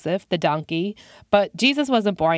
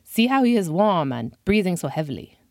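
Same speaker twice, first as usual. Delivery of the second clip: put-on French accent. Frenchman showing the man is breathing, French accent. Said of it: "said in a French accent".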